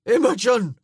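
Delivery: a loud, high, pained cry after her; desolate call. Acted. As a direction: call her back, full of pain. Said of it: "he called after her, his voice desolate".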